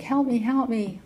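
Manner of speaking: a hammed-up plea from the bottom of a pit; mock cry for help.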